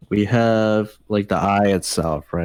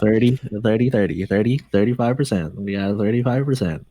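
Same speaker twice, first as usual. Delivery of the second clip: auctioneer. Pretend. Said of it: "It's like a bid now".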